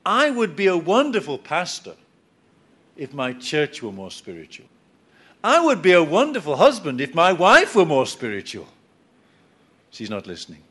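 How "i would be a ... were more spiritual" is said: lightly voiced whiny excuse-maker; self-pitying complainer. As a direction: blame everyone else, self-righteous. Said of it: "somebody who talks like this".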